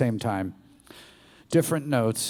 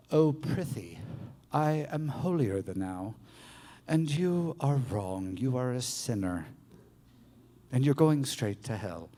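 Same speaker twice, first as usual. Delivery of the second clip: sanctimonious martyr; 5 dB quieter than usual. Acted. The martyr part condemning a sinner, sanctimonious. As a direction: pronounce judgment in measured, holier-than-thou phrases. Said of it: "That's the martyr".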